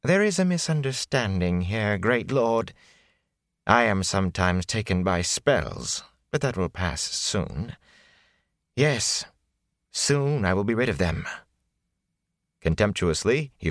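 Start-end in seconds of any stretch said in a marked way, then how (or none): 0.0-11.3 a hint of a smooth, oily flatterer; smooth it over like a courtier; sleek and oily. Prisoner flattering the great lord, lightly sleek and oily. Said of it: "His tone became sleek and oily".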